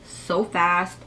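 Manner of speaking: slight lisp, braces in the way. Real, not acted. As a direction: talk around braces with a lisp. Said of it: "I'm sorry if I have a lisp".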